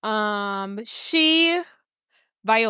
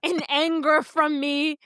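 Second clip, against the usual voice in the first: mock prayer; 3 semitones higher than usual. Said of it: "She's like".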